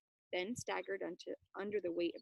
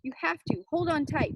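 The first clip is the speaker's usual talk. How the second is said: calling out; 6 semitones higher, 7 dB louder than usual. Acted. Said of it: "Ben called".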